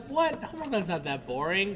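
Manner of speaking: high, sharp what, then protesting; mock indignant surprise. Defending her hometown, mock surprised and high. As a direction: act offended at the list. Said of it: "And I was like".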